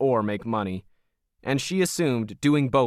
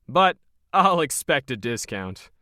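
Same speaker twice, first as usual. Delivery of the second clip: lightly voiced smug operator, a touch higher; Logan, cold and smug; 3 semitones higher than usual. Smug Logan sizing up Krisha as hired help, lightly voiced.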